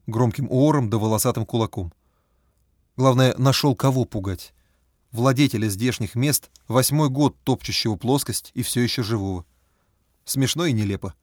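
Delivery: plain reading voice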